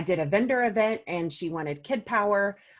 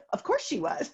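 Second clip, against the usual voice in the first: laughing; 5 semitones higher than usual. Real, not acted. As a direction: repeat it while laughing.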